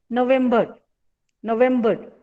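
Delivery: November with stress on the vem syllable; No-VEM-ber, weight on vem. Shown as a demonstration. Teacher showing the stress in November. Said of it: "where is the stress".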